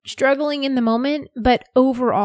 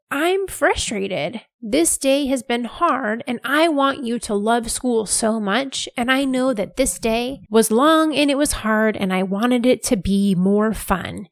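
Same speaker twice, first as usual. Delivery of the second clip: super honest. Retold or imitated. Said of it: "And I said, super honest".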